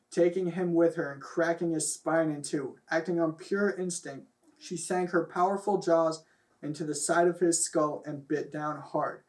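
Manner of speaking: mock-dramatic reading of a silly story; story narration. Reading raunchy fan fiction aloud to laughing friends, mock-dramatic narration. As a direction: read it out like a serious story, half laughing.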